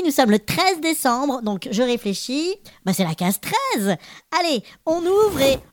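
cheerful little elf host; christmas elf. Acted. Elf narrator voices podcast.

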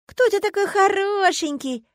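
very high, slow, loud cooing; baby talk. A narrator's reading. Agata petting Kavora between the ears, baby-talk cooing. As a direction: coo at it like a baby. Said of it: "засисюкала Агата".

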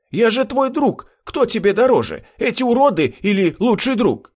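high, pleading voice on the edge of panic; desperate plea. Acted. Lanky man pleads with Hank to choose him, high and desperate. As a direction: beg him to remember your friendship. Doomed friend begs for life.

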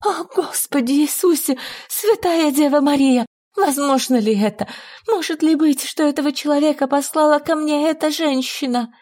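high, desperate exclamation; appeal to heaven. Acted. Lady raises her arms to heaven, high desperate prayer. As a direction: cry out to God in disbelief.

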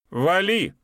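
loud high yell of get lost; shouting. A narrator's reading. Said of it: "крикнул Эстом".

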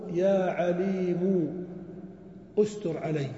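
very slow, drawn-out prayer call; slow supplication. Shown as a demonstration. Teacher voicing a slow prayer to God. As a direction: plead it slowly.

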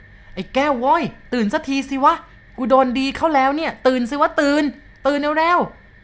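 high panicked yelling to wake a friend; frantic shout. Acted. Terrified driver yelling at his sleeping mate, high frantic shout. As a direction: scream him awake like a madman. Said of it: "ตะโกนเรียกเสียงดังลั่น".

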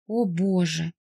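a small, faltering cry of alarm; babbling gasp. A narrator's reading. Daughter hearing that her husband is in hospital, faltering alarm. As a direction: let it slip out, shaken. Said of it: "пролепетала я".

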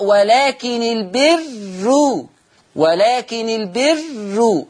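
ولكن البر chanted very slowly, light نون, البرُّ with a damma; slow recitation. Shown as a demonstration. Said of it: "فتقرأ". (ترتيل بطيء: ولكنِ البرُّ)

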